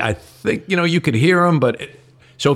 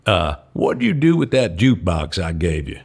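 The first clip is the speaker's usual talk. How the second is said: put-on country accent; 4 semitones lower than usual. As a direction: lower country-boy voice. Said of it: "Billy is a real country boy".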